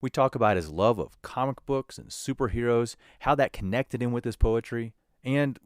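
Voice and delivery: scripted host introduction, smoothly paced; podcast intro read. Real, not acted.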